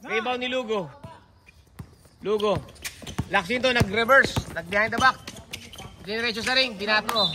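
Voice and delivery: names called out, long shot stretched; basketball play-by-play. Real, not acted. Announcer follows Alan's shot from downtown, live play-by-play. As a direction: follow the ball, drawing out the big attempt.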